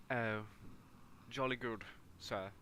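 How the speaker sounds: a light mock posh British "jolly good"; British accent. Playing Hannay as a light mock posh British gentleman. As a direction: toss off a hammed-up posh British reply. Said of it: "So many good, uh, accents".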